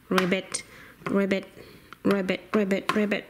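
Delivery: soft, low ribbits; frog ribbits. Pretend. Toy frog crossing the street, soft low ribbits. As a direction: croak softly like a little frog.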